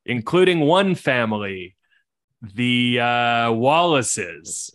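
game master opening the scene, measured and slightly slow; story narration. A narrator's reading. Game master introducing the Wallace family, storyteller cadence.

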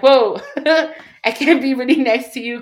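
loud, high startled whoa with a laugh; laughing recoil. Retold or imitated. To people whose mom died, a loud laughing recoil. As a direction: back away half-joking.

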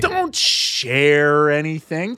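slow drawn-out. Pretend. Mock pleading warnings, drawn out.

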